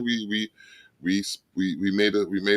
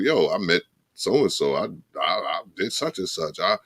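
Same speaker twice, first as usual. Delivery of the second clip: put-on bragging old-timer voice; 4 semitones higher, 4 dB louder than usual. Mimicking an old bragging elder.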